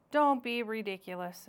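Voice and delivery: brisk, exasperated interruption; interrupting. Acted. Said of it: "interrupted Missus Beaver".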